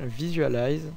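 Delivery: English word said with a French accent. Real, not acted. Reading a software menu item, in French-accented English. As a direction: read 'visualize' the French way, stress on the last syllable. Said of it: "avec mon accent".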